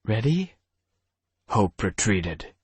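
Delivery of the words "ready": Hope's voice. Acted. Hope startled, female character voice.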